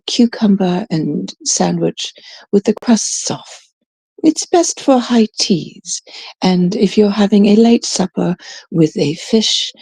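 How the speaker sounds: mock-refined pairing suggestions; lightly put-on wine expert, reciting pairings; wine snob. Mocking the suggestions to pair it with, wine snob impression. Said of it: "you know how they say".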